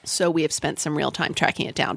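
talking with a wet mouth pop; a loud pop of the lips mid-sentence; mouth popping. Real, not acted. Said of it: "I just made a loud popping sound".

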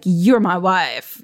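put-on slow, lightly done Texas accent on a menacing husband's line. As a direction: drag it out slowly in a mild Texas accent, quoting the father. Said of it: "That was my Texas accent".

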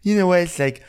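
peppy instructor voice; mock fitness instructor; Dorinda aerobics. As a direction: lead it like an aerobics class. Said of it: "Dorinda aerobics".

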